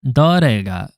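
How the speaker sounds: dore said clearly with falling tune; correct dore. Shown as a demonstration. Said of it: "dore is right".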